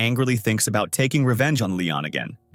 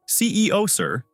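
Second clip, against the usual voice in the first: mildly shocked, higher pitch on the title, dropping after; 10 semitones higher than usual. A narrator's reading. Yen greets the CEO arriving at the party, mildly shocked. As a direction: read it with a touch of startled surprise. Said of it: "Yen says in shock".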